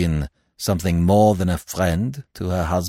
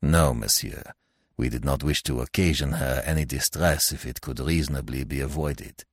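French magistrate, restrained; 2 semitones lower than usual. Acted. Magistrate excusing himself to Stoner, restrained.

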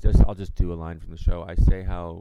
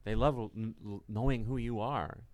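reassuring; 5 semitones higher than usual. Retold or imitated. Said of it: "And I'm like".

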